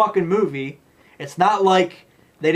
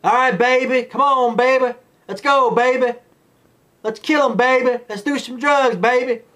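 higher, louder mock party-girl voice; mocking druggie voice; 8 semitones higher, 3 dB louder than usual. Mocking Lizzie urging drugs and killing, high put-on voice. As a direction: parody her as a wasted party girl.

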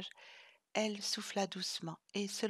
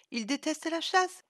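plaidoyer vif; 8 semitones higher, 4 dB louder than usual. Acted. Chloé défend Vlad avec entrain.

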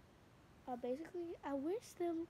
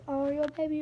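mock baby-talk coo, louder; cooing fangirl; 3 semitones higher, 16 dB louder than usual. Imitating fans cooing at the couple, mock coo. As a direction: gush like a fan at a cute moment. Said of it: "And you're like".

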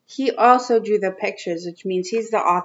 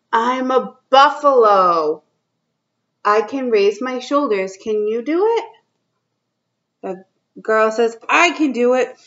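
put-on reading to children. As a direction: read it out to little kids, drawing each line out. Reads picture book to kids.

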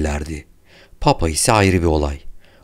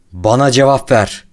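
furious shout; 6 semitones higher, 6 dB louder than usual. A narrator's reading. Laszlo shouting at the bound doctor for answers, furious. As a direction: shout it, higher and louder, full of rage. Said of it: "diye bağırdı".

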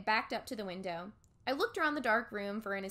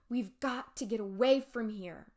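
frightened. Acted. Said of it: "He sounded very frightened".

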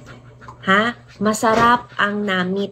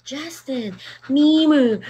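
put-on Ilonggo accent; 4 semitones higher, slower than usual. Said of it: "It's Ilonggo accent".

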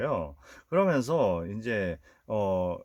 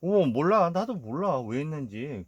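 feigned innocence; 5 semitones higher than usual. Retold or imitated. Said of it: "시침이 뚝 떼면서".

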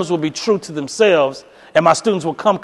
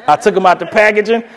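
laughing confession. Retold or imitated. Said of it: "don't y'all judge me".

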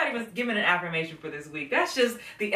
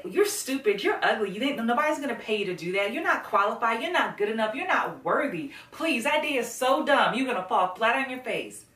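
louder, mock-cruel put-downs; mean critic voice; 2 semitones higher, 4 dB louder than usual. A mild mock inner critic insulting a loved one. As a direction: sneer like a nasty bully. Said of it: "Would you say".

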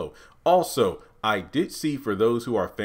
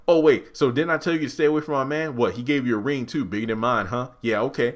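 taunting Jasmine; 3 semitones higher, faster than usual. Retold or imitated. Jasmine taunting Andy about the ring, sassy. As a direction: taunt her rival.

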